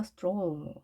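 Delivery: 스트롤 with a long drawn-out "oh"; lengthened vowel. Shown as a demonstration. Teacher models the word for learners, 스트롤 with a longer vowel. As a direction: stretch the o in 스트롤. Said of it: "좀 더 길게 발음이 됐죠".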